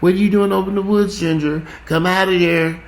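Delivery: mock the sweet way a white lady calls her dog. Mocking how white owners call their dogs, high sugary voice. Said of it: "like, the white".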